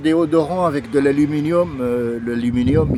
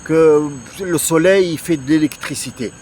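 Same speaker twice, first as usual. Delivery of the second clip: skeptical objection; 6 semitones higher than usual. Retold or imitated. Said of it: "tu me dis".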